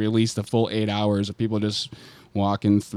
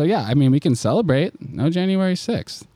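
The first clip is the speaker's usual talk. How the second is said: mock celebration; 7 semitones higher, 3 dB louder than usual.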